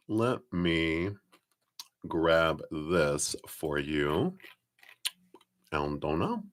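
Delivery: talking while crunching a cough drop. Real, not acted. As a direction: crunch a lozenge between words. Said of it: "Sorry, I'm crunching my cough drop".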